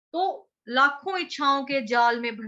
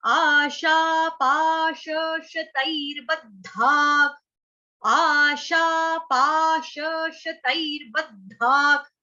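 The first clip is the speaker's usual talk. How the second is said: slow recitation; 3 dB louder, much slower than usual. Shown as a demonstration. Teacher reciting the shloka slowly for students. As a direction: chant आशा पाश शतैर्बद्धाक slowly, syllable by syllable. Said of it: "ये त के साथ आपकी मात्रा लगेगी ऐ की".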